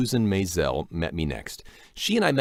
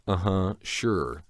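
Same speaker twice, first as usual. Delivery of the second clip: sceptical; 2 semitones lower, much slower than usual. Retold or imitated. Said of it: "chip on my shoulder".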